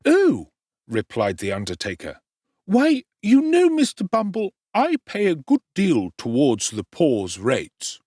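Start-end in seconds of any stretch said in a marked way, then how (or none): 0.1-0.5 high, slow, fawning undertaker voice; the obsequious undertaker, pitched up high; high ingratiating tradesman; oily undertaker. Acted. 2.7-8.0 high, slow, fawning undertaker voice; the obsequious undertaker, pitched up high; high ingratiating tradesman; oily undertaker. Acted.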